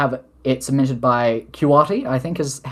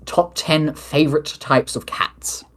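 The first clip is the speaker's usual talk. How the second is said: whisper; 3 semitones higher, slower than usual. Pretend. Reading a silly question aloud.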